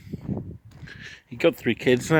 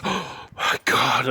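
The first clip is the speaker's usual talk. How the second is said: retold stunned recognition; much slower than usual. Friend recognises him, tearful.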